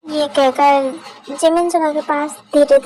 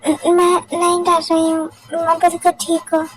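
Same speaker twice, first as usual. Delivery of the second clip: higher, stammering false reassurance; scared denial; 3 semitones higher than usual. Acted. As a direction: insist you're fine while clearly scared. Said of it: "इतना डरी हुई क्यों हो". (डरते हुए झूठा इनकार)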